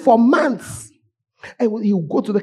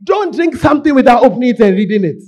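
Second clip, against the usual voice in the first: stern command; 4 semitones higher, 8 dB louder than usual. Real, not acted. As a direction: lay down the law.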